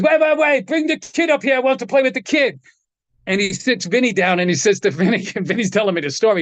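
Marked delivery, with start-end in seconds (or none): 0.0-2.6 excited call. Retold or imitated. Django calls out to kid.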